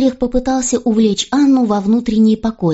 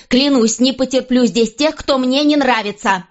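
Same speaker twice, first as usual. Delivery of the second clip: higher defiant queen; 5 semitones higher than usual. A narrator's reading. Queen defying the king over her ladies, raised and defiant. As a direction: stand your ground, voice raised.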